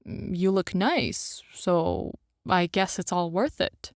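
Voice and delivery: shy, hesitant compliment; bashful. A narrator's reading. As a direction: say it shyly, blushing. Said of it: "he says bashfully".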